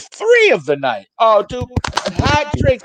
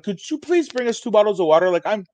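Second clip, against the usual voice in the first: sugary higher voice, mocking politeness; fake-nice condescension; 5 semitones higher than usual. Asking the bartender for water for the drunk guy, fake nice. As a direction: sound sweet while talking down. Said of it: "super condescending ... sounding super nice".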